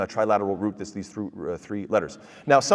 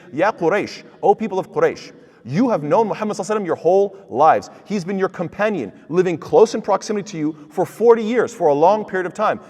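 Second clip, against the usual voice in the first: pleading with Quraysh; 5 semitones higher, 4 dB louder than usual. Retold or imitated. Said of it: "as if to say".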